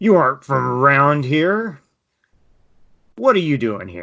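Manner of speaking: put-on slurred drunken mumble. Voicing a drunk dwarf who lurches at the players: drunk dwarf mumbling. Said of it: "mumbles something that you are able to make out as".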